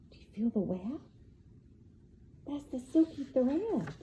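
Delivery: soft, fast hushed question; hushed wonder. Acted. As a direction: draw the child in with a hush.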